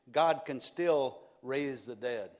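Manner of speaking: slow, with "God" stressed; preacher slowing for the climax; slow proclamation. Real, not acted. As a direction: drag out "God can still raise the dead".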